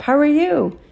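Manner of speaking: high, cheered-up question. A narrator's reading. Son asks after his mother, cheered up. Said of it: "I said, all cheered up".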